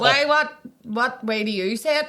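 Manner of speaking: coworker's indignant question. Retold or imitated. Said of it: "she was like".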